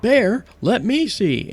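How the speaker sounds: high, loud, drawn-out talking-dog voice; playful high-pitched dog character, slow and loud; eager dog voice. Acted. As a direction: voice an excited dog butting in. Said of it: "Dingo comes up and says".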